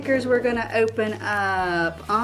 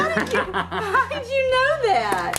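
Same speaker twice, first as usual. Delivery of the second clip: amazed; 12 semitones higher than usual. Acted. Amazed at child's guess.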